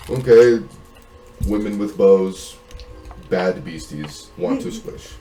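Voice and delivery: slow, loud, halting summary in basic words; simple-minded listener. Acted. Game master voicing a player's limited grasp of the conversation, slow simple-minded voice. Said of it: "surmise from the conversation, like".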